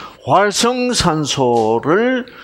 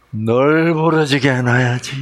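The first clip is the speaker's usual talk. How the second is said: Chungcheong dialect; 4 semitones lower than usual. Shown as a demonstration. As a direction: stretch the Chungcheong word lazily. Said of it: "충청도 말은 널브러지게".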